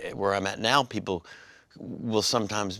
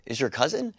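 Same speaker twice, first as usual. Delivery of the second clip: surprised Drew Carey; 5 semitones higher than usual. Retold or imitated. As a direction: pitch jumps up on Scott. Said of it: "he looks up, he goes".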